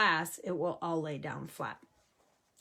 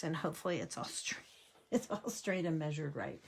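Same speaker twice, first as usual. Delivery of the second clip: whispering; 3 semitones lower, 8 dB quieter than usual. Real, not acted. Quiet aside while fixing frame.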